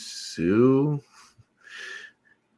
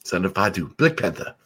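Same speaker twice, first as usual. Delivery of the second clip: put-on South African accent; 2 semitones lower, 4 dB quieter than usual. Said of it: "South African accent".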